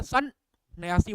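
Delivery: सन then न्यासी, said as two parts; split into sun and nyasi. Shown as a demonstration. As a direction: say सन, pause, न्यासी. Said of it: "हम बोलते हैं".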